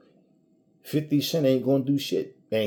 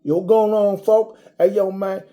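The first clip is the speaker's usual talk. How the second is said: hyped-up street guy; 6 semitones higher, 4 dB louder than usual. Retold or imitated. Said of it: "I see people sometimes, and it's just like".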